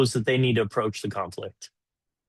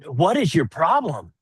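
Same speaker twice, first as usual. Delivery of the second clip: slow, higher, confrontational; mock hostile; 6 semitones higher, slower than usual. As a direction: demand it like you're fed up.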